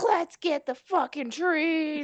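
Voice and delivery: slow, high hammy yell; mock shout. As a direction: shout it, dragging it out. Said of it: "with those guys like".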